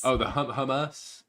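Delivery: slow, halting "hum-, hummus?" with a rising end; imitating Stoops. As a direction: stumble into "hummus?" like a question. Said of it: "I don't even remember how Stoop said it".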